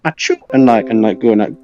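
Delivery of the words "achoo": higher-pitched pretend achoo; mock sneeze. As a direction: imitate a little sneeze. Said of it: "Do you be going like".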